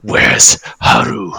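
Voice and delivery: slow, drawn-out villain demand; menacing dragon. Acted. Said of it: "looks across at all of you and he's like".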